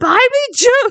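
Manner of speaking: put-on very high, shrill, demanding toddler scream. Retelling how a kid in a coffee place demanded juice: imitating a screaming child. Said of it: "he just kept screaming at me".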